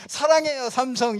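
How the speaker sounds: a mismatched mock slogan, played up. Shown as a demonstration. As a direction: pitch it like an ad that doesn't fit. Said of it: "이런 거는 안 맞아요".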